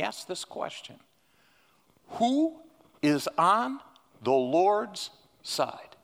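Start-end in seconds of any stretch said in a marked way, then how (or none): 2.1-6.0 slow, drawn-out call of Moses. Acted. Moses calls the people to choose sides, slow and solemn. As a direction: stretch it like a prophet summoning the crowd.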